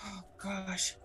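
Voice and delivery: breathy whisper of dismay. Acted. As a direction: whisper it in shock. Hearing of a death.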